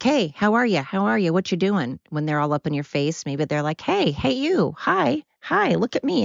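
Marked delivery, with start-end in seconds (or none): 0.0-2.0 curious yellow jackets. Pretend. Yellow jackets greeting someone up in their face, lightly mock-friendly. 3.8-6.2 high, eager pestering voice; attention-seeking yellow jackets. Pretend. Yellow jackets wanting attention from a person, high and pestering. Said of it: "maybe they're just attention whores".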